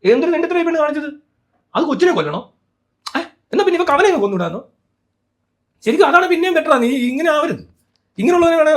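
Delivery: loud, high indignant outburst; real angry shout; outraged rant. Real, not acted. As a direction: blast your outrage at her.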